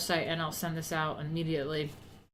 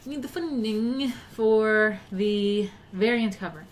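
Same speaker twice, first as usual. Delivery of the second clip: Apprentice presenter impression; 2 semitones higher, 5 dB louder, slower than usual. Streamer mocking the Apprentice intro to ask for funds, hammed-up host voice. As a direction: pitch the cover like a dramatic reality-show host. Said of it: "so I'm always like".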